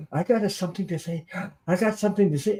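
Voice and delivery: gasping lead-ins, mildly choked-up retelling; emotional, retold. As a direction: imitate an upset wife gasping before she speaks. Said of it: "I saw her all emotional".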